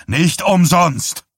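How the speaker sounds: put-on mayor driving the point into the boy; forceful repeat. A narrator's reading. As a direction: hammer the words home slowly.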